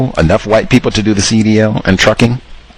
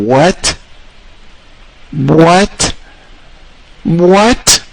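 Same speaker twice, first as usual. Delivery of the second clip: each What climbs higher; rising disbelief; 8 semitones higher, much slower than usual. Real, not acted. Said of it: "building disbelief".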